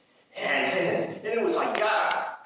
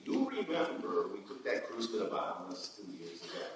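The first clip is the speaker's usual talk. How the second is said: hushed confiding; 11 semitones lower, 10 dB quieter than usual. Acted. Monologue line, coach: beautiful.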